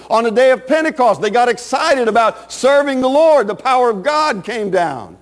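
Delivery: driving, emphatic sermon delivery; impassioned preaching. Real, not acted. Preacher urging the congregation not to be ashamed, fervent preaching. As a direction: preach it in long, rolling phrases.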